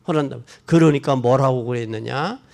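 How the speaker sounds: ordinary talk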